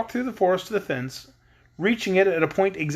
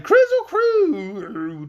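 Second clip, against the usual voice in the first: slow, drawn-out loud cry; all yell it together; 10 semitones higher, 4 dB louder, much slower than usual. Acted. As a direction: friends yelling the words together to anger the Woozy. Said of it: "they all cried".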